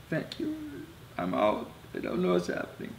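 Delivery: high, thin voice, halting; emotional, pausing between phrases; choked up. Real, not acted. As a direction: fight back tears through a farewell. Tearfully retells farewell call to mom.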